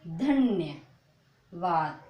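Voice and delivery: धन्यवाद drawn out slowly, the half न said quickly into या; धन्यवाद modelled slowly for beginners; slow teaching demo. Shown as a demonstration. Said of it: "आधे ना को कैसे बोलोगे?".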